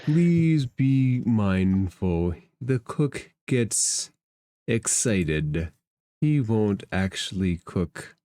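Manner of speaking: slow, deliberate character voice; measured warning figure. Acted. Merkin warns the party about the cook, slow and deliberate. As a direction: give a careful warning, taking your time.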